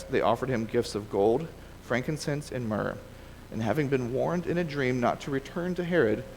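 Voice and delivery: measured read-aloud of a Bible story; reading from the page; scripture reading. Acted. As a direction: read the passage aloud to a class, phrase by phrase.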